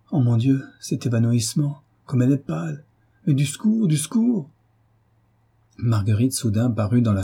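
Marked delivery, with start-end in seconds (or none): 0.1-4.5 much higher desperate call for help; heartrending cry. Acted. Son holding his fainting mother, desperate cry. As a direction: shriek for help in despair. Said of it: "d'une voix déchirante".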